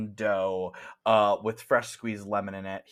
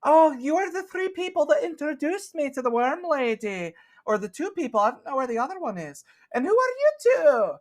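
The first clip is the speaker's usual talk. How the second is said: high, bright-ish Scottish shopkeeper voice pitched way up; Scottish accent; 6 dB louder than usual. Acted. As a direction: play the cheerful Scottish cookie shop owner, very high. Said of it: "She was Scottish".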